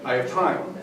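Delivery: calm quote. Retold or imitated. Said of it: "that Game of Fish guy said".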